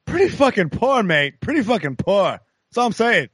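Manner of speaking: high, exaggerated British car-show presenter; Top Gear impression. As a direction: do a mock Top Gear verdict. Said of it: "let me do Top Gear".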